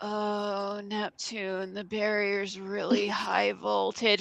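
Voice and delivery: soft pained groaning, drawn-out oh. Mocking a dub scene where she hits a shocking barrier, imitating Uranus groaning. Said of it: "she groans".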